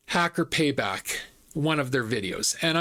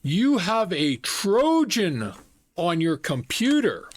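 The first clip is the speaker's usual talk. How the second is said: slow, higher-pitched mock Indian accent; imitated Indian accent; 3 semitones higher, slower than usual. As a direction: imitate a scam caller's Indian accent, drawn out. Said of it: "It was an Indian accent".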